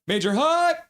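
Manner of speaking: squealed high on "hype"; high hype cheer. Retold or imitated. Host repeating Carol's chat message, high hyped cheer. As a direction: jump way up in pitch on "hype".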